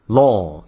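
Law with one long rounded "aw". Shown as a demonstration. Teacher modelling Law for learners, long full "aw". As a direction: hold the vowel in Law fully. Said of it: "它的单元音长o".

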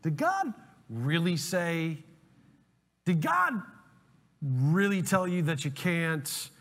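slow, sly tempter voice; drawing the question out like the serpent in Eden; Satan's question. Retold or imitated. The serpent whispering doubt to Eve, slow and sly. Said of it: "the same thing that Satan said".

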